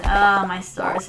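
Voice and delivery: put-on prim old lady. Slow prim exclamation.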